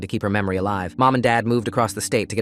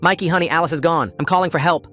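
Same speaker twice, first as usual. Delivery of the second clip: yelling; 6 semitones higher than usual. Acted. Neighbour yelling at Mikey through the door. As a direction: yell back firmly through the door. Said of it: "Missus T yelled back".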